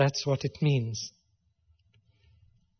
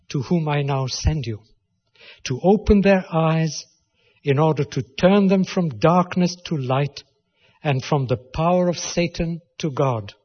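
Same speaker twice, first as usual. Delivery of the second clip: louder, ringing sermon read of the scripture; preaching scripture reading; 4 dB louder than usual. Acted. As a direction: proclaim the verses to the congregation. Reads Yeshua's commission aloud.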